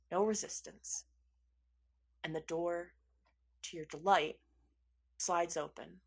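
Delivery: soft, low scene-setting; hushed game master storytelling; game master narration. A narrator's reading. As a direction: narrate the moment quietly with suspenseful pauses.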